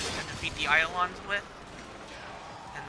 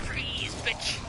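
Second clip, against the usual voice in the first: higher mock shout at the enemy; taunting yell; 4 semitones higher, 5 dB quieter than usual. Taunting the enemy in the game, a mock shout. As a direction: bark the taunt at the target.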